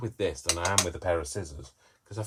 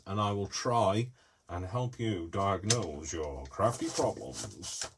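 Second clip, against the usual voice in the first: mock doctor voice; slower than usual. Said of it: "I don't know why I have to say it like that".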